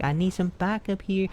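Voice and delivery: acted-out annoyed appeal; retold exasperation. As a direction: plead for backup, mildly fed up. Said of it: "I was getting all mad".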